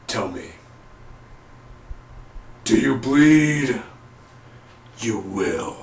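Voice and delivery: slow mock vigilante threat with long pauses; Arrow. Imitates Arrow's grim threat.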